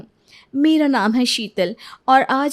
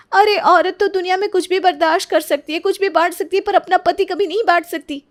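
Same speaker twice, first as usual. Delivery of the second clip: higher, forceful indignation; indignant declaration; 7 semitones higher, 3 dB louder than usual. Acted. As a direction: proclaim it with wounded pride. Wife lectures rival on marriage. (आहत गर्व से ऊँची आवाज़)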